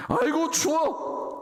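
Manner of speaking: high, slow, drawn-out shiver of a voice; a comic "aigo, it's cold" moan. Acted. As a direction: stretch it out like someone freezing. Peter shivering by the fire.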